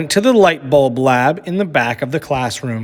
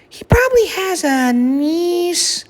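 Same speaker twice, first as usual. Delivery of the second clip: gentle mother. A narrator's reading. Mother at bedtime gently explaining to Lily. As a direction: let her down gently.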